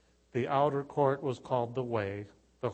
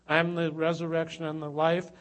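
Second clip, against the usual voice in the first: louder, higher preached declaration; loud proclamation; 5 semitones higher, 7 dB louder than usual. Acted. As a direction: proclaim it to the whole congregation.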